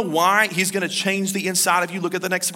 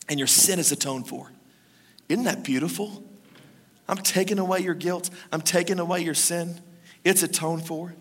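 gentle assurance; 5 dB quieter than usual. Real, not acted. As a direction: speak it like a quiet promise. Tender assurance of forgiveness.

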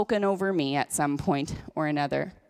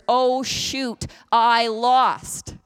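lightly voiced dismayed devil; a touch higher, mock defeat; the enemy's dismay; 3 semitones higher, 4 dB louder, much slower than usual. Preacher playing the enemy who remembers he lost, lightly hammed-up dismay. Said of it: "because the enemy remembers".

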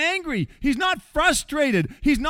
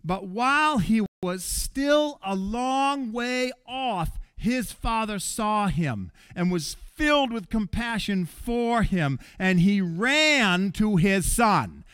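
slow, deliberate reading of the verse; preacher reads the verse aloud, slow and deliberate; scripture reading; slower than usual. Shown as a demonstration. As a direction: read it slowly, letting it land. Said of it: "Listen how it reads".

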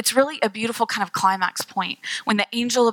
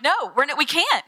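higher-pitched, swooping refusal; mock protest; 5 semitones higher than usual. Wife objecting to husband about a Christmas tree, mock protest. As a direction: playfully insist it cannot be done.

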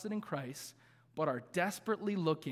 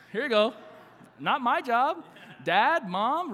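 mock handoff; 6 semitones higher, 6 dB louder, slower than usual. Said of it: "I'm like".

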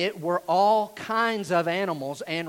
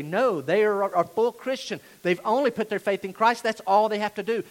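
acted indignant rebuttal, slightly raised; really angry; 4 semitones higher, 4 dB louder than usual. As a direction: argue back insistently, as if for Paul and Barnabas. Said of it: "makes them really angry".

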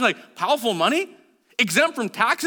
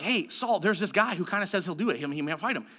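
quiet report; 3 semitones lower, 6 dB quieter, faster than usual. Acted. Servant tipping off King Saul.

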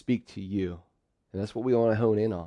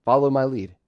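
bossy; 3 semitones higher, 5 dB louder, faster than usual. Retold or imitated. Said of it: "bold, bossy, confident, or controlling words".

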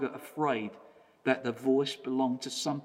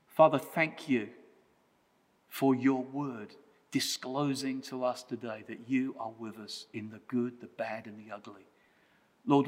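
prayer. Real, not acted. Leads closing prayer.

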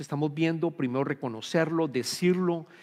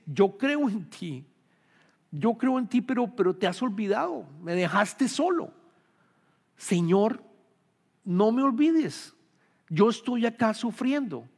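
lightly acted plea, higher pitched; pleading psalmist; 5 semitones higher than usual. Psalmist crying out to God in suffering, mildly pleading. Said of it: "Le dice".

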